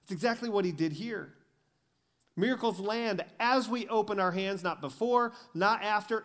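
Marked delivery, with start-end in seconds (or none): 2.3-6.2 high, loud, driving sermon delivery; preaching at full force. Acted. Pastor pressing the crowd about the loaves, full-force preaching. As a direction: preach it hard, pushing every line upward.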